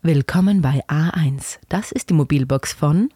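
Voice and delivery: calm announcement voice, slow; slow, measured mailbox greeting; phone menu voice. Shown as a demonstration. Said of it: "Ich sag sowas wie".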